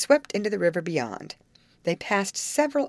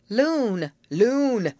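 laughing correction; 6 semitones higher, 4 dB louder than usual. A narrator's reading. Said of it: "corrected Betty with a laugh".

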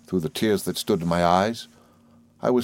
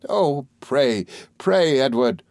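higher, imploring outburst; crying out; 5 semitones higher, slower than usual. A narrator's reading. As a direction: lightly play a wife breaking in to plead. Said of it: "cried my mother".

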